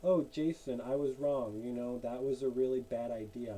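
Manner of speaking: lightly voices a parent admitting a mistake; mock apology. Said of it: "there's like".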